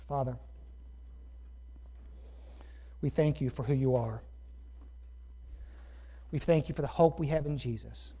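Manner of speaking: measured prayer with long pauses; closing prayer. Real, not acted. Preacher leading the congregation in prayer, measured and reverent. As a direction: pray aloud in unhurried phrases.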